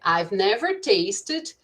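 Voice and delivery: slow, deliberate example sentence; teacher modelling an English sentence slowly; slow demo. Shown as a demonstration. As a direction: lay out each word slowly for the class. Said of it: "Você poderia dizer assim".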